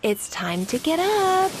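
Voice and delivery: gentle soft call; softly. A narrator's reading. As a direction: call her name gently. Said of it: "called Mama softly".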